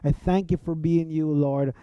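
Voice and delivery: plain earnest prayer, spoken quickly; a sample prayer of confession and thanks; quick demo prayer. Shown as a demonstration. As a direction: rattle off a short honest prayer. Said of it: "it can be just like this".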